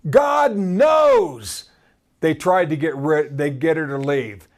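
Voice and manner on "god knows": slow, raised plea to be rid of her; demanding shout. Acted. Disciples begging Jesus to send the woman away, shouting. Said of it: "and they demanded".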